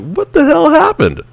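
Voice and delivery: high, squeaky amazed question; incredulous. Retold or imitated. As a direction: squeal it in laughing disbelief. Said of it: "we're like".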